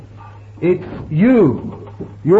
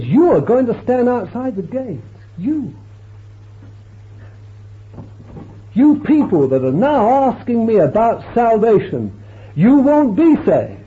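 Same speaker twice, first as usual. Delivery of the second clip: forceful rebuke; 5 semitones higher than usual. Acted. Jesus rebuking askers, preached forcefully.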